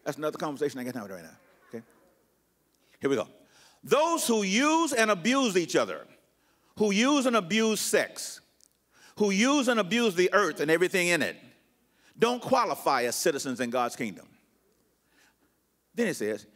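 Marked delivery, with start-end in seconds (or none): 3.8-14.3 measured, declaimed list with each phrase set apart; scripture reading. Acted. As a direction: pulpit proclamation. Reads The Message aloud.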